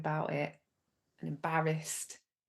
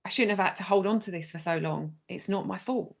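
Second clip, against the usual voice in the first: voicing angry child; 3 semitones higher, 3 dB louder than usual. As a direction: speak for the stamping angry little girl. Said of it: "talk as if you're her".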